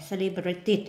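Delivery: "celebrated" with an added "it" syllable at the end; ending pronounced "it". Shown as a demonstration. Teacher showing the ED rule, "celebrated" ending in "it". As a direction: sound out the last syllable of "celebrated". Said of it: "các bạn phát âm là it".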